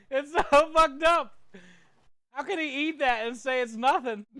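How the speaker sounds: loud, high, pained outburst; mouth burning from spicy food. Real, not acted. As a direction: cry out while the mouth burns. Mouth burning from ghost pepper.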